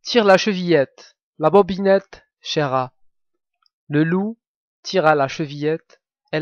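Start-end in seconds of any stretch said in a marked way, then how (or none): 0.0-2.9 louder grandmother calling toward the door; calling out from bed. Acted. Grandmother in bed calls to the visitor, louder. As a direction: call out through the door from bed. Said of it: "lui cria".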